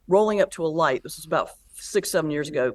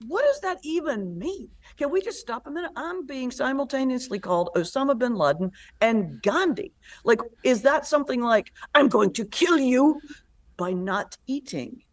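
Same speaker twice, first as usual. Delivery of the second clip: higher, baffled disbelief with a mild mocking edge; incredulous comeback; 7 semitones higher than usual. Comic retorting to the hecklers, high incredulous disbelief. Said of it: "calls it out in the moment. He goes".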